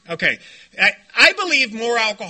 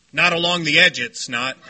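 contrarian objection; 8 semitones lower than usual. Retold or imitated. Plays contrarian objecting to obvious fact.

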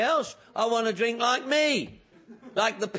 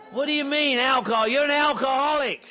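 much higher and louder, yelling; loud shouted accusation; 5 semitones higher, 4 dB louder than usual. Retold or imitated. Man at the meeting yelling his verdict in his face. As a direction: hammer the word home at full volume.

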